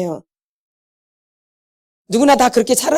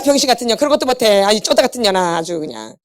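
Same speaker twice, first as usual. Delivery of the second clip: insulting parent. Retold or imitated. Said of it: "막 모욕을 주고".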